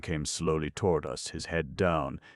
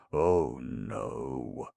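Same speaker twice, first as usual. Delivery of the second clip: blithe assurance. A narrator's reading. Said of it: "Vance blithely assured him".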